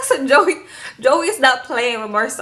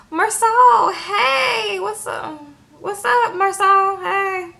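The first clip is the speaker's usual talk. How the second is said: excited greeting; 8 semitones higher, much slower than usual. Retold or imitated. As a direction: shout hello like kids thrilled to see him. Boys greet Marcel loudly.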